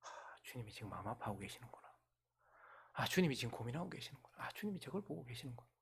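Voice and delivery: soft, low inner voice; hushed realization. Acted. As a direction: murmur it as a dawning thought. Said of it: "이사야는 알았던 거예요".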